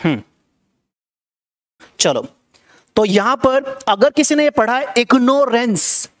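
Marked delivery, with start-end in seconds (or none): 5.0-6.1 इग्नोरेंस said as "ig-NORE-ence"; long o in इग्नोरेंस; mispronounced ignorance. Shown as a demonstration. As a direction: say इग्नोरेंस with a full "nore" in the middle. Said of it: "अगर पढ़ा है तो गलत पढ़ा है".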